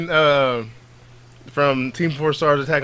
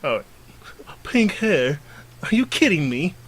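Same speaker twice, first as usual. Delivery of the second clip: mocking sneer; 4 semitones higher than usual. Boys mocking her hair.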